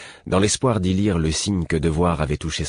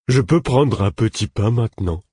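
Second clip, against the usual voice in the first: put-on higher, eager childlike pleading; simple-minded pupil; 5 semitones higher, 3 dB louder than usual. A narrator's reading. Simple pupil asking teacher for a bun, eager. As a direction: ask hopefully in a higher, altered voice.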